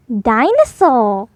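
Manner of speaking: slow, drawn-out dinosaur growl. Acted. George growling his answer to Daddy. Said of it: "he growled".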